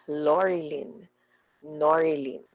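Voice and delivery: Lorilyn, Norilyn, each leaning on the first syllable; first syllable stressed. Shown as a demonstration. Teacher demonstrating names to students, first syllable of Lorilyn and Norilyn stressed. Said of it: "The first syllable of their names are stressed".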